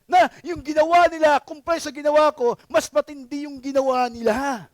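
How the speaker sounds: the unrepentant thief justifying himself, loud and indignant; defensive thief. Retold or imitated. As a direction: push back like you're the wronged one. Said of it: "Yun ang sinasabi ng thief".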